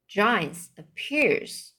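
giants appears said slowly again; slow it down the second time. Shown as a demonstration. Reader repeating giants appears slowly.

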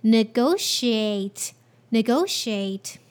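"negotiate" as neh-GO-she-ate, slow at first; model word. Shown as a demonstration. Teacher blending the whole word for learners. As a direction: say "negotiate" slowly, then again. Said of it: "Combining all together".

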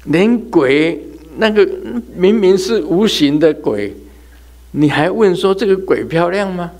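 提高声调，大声不敢相信地反问; 哭笑不得地质问，问字加重; 惊讶反问. Real, not acted. 对着这事惊讶反问. (又高又响地惊讶反问)

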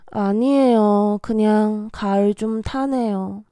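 sigh, then a mild autumn gloom; with feeling. Acted. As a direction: answer wistfully after a sigh. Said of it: "让我们带入感情".

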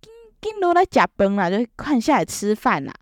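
lightly voiced grandma calling down to dinner; grandma calling in Taiwanese. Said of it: "阿嬷就一直说".

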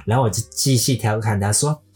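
ordinary talk, nothing marked

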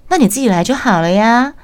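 exasperated. Retold or imitated. Her exasperated reply to boss.

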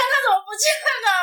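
high, startled rise of disbelief; sudden shock that he's gone; shocked surprise. Retold or imitated. Discovering friend gone. (发现朋友不见了，吃惊拔高)

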